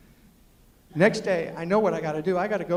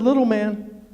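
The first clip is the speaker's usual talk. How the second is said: a hint of the teasing girl, slow and loud; 9 dB louder, slower than usual. Desiree in the car approving of him, slow and loud. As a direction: drawl it like a grudging compliment.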